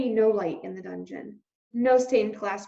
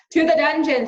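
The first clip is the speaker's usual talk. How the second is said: crowd mouse call; 6 semitones higher, 9 dB louder than usual. A narrator's reading.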